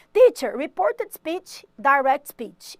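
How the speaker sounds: student calling out. Pretend. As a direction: call out like an eager pupil. Teacher voices a student's question.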